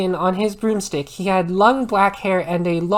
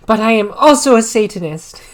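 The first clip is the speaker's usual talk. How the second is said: louder, held-back giggle; trying not to laugh; 7 dB louder than usual. Shown as a demonstration. Reader rereading the Satanist line, fighting a laugh. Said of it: "rereads line".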